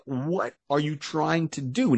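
mock horrified mother; freaked-out mom. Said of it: "she freaks out, like".

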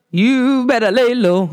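lightly put-on diva impression, slow; a hint of a singer's slow drawl. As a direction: draw out the words slowly in imitation. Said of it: "In my diva voice".

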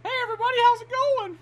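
high, softened fake-friendly greeting; put-on sweet hello; mock cheerful Santa. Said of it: "he's all like".

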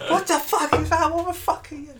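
high squeaky terrified voice. Acted. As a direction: shriek in panic. Terrified guards facing monster.

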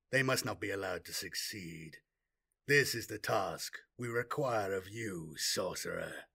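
a hint of a low lifeless tyrant; measured, chilling briefing; cold dead warlord voice. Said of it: "in his cold, dead voice".

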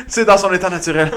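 words through laughter; laughing. Real, not acted. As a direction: laugh while saying it. Rit en parlant. (en riant)

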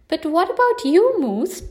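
rising, concerned question; worried question. Acted. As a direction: ask with real concern. Friends ask in chorus refrain.

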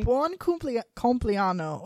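buon cumpli- compleanno said the Italian way, with a rolling, stressed -anno; Italian pronunciation. Shown as a demonstration. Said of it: "It's buon".

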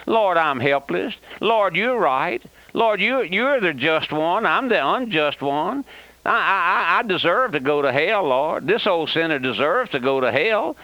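tearful sinner's confession, a break of crying in it; a repentant old man's teary prayer; pleading sinner. Acted. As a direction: plead with the Lord, guilt catching in the throat. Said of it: "comes to the place where he says".

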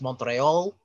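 Montreal with a light French accent; little French accent. Shown as a demonstration. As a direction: give the name a little French lilt. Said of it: "say it with the little French accent".

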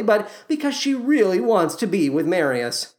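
normal talking voice

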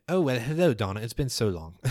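fussy elder's delighted hello; distracted elders. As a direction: greet an old friend, instantly distracted. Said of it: "And they say".

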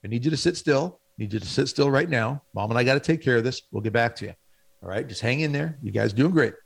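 calm, steady, firm instructions; father keeping his kids in line in a store, firm but loving. Retold or imitated. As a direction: set the rule kindly but without give. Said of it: "Okay, but it was firm".

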